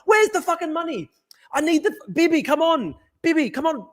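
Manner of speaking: hammed-up frantic pleading; mock desperate plea. Real, not acted. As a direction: whine up high at the feds for money. Mock-begging feds for money.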